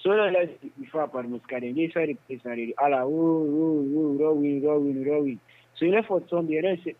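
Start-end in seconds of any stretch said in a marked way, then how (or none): 2.8-5.4 drawn-out imitated cry; retold outcry. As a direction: stretch the cries out slowly, re-enacting them. Re-enacting cries during the attack.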